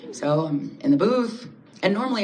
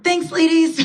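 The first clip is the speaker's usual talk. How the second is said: very high, louder, sweet sing-song thanks; 11 semitones higher, 6 dB louder than usual. Retold or imitated. Scuttling past the women on the sidewalk, high sing-song. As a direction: chirp it up high and harmless.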